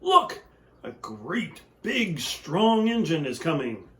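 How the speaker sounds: high excited call; eager clown shout. Acted. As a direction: spot the engine and call to the others. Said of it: "the little clown called out".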